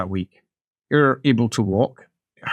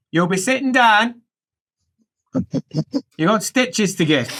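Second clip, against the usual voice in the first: higher-pitched instruction with a pause; stern helper; 8 semitones higher than usual. Acted. Helper sending patient for stitches, acted firm voice. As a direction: break the bad news firmly.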